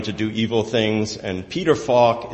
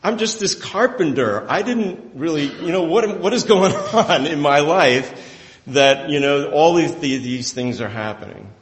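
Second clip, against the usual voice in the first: bewildered Joseph; 3 semitones higher than usual. Retold or imitated. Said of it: "just like he was saying".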